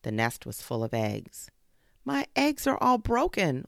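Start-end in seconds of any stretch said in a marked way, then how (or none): 2.0-3.6 high, loud grieving wail; high, louder mother bird's wail. Acted. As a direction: cry out over the broken eggs. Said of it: "wailed the bushfowl".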